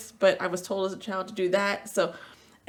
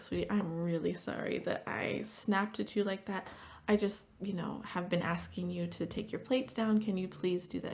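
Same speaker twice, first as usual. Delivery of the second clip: gentle apology; 6 dB quieter than usual. Retold or imitated.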